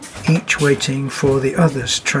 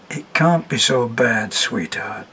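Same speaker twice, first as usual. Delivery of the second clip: soft, comforting, trailing into a whisper; tender hush to a crying girl; softly; 3 semitones lower than usual. Acted. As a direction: soothe her gently. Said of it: "he said softly".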